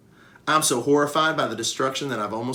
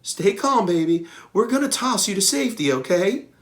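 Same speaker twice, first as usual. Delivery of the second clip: soothing; 9 semitones higher, 4 dB louder than usual. Acted. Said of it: "says Okello".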